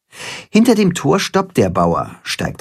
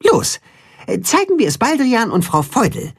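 Katzenhuhn; 11 semitones higher than usual. A narrator's reading. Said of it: "weist die Freunde an".

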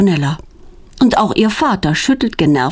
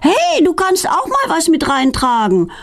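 raised-pitch call after her sister; 10 semitones higher than usual. A narrator's reading. Feline calling after Petronella, raised pitch. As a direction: call out to her as she runs off. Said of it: "ruft Feline ihr hinterher".

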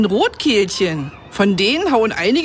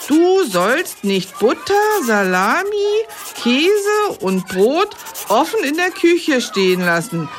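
mock biblical speech; 2 semitones higher, slower than usual. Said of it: "Eine Regel fehlt aber noch".

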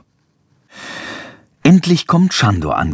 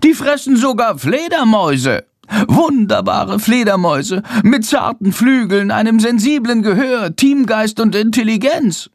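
high, proud bat voice raised; 10 semitones higher than usual. A narrator's reading. Bat defends bats to Jendrik, raised voice. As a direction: proclaim bats' virtues. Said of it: "mit erhobener Stimme".

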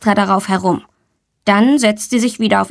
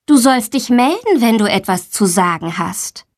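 mild admonishment. Acted. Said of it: "Die Lehrerin ermahnt Tommy".

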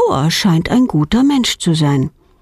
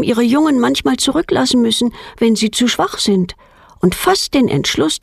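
ordinary delivery

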